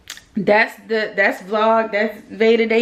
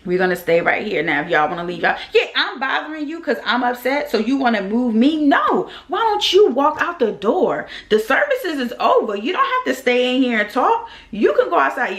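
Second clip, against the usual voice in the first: retold going off; 3 semitones higher than usual. Grieving granddaughter ordering chatty guests outside, indignant. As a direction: order them out the door, fed up. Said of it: "when I tell you, I went off".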